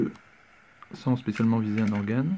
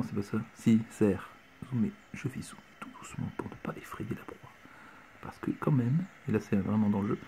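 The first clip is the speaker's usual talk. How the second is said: hushed, much softer stalking commentary; hunting show whisper; 2 semitones lower, 8 dB quieter than usual. Pretend. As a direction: whisper so the prey won't bolt. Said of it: "je parle tout bas, ça fait plus ambiance".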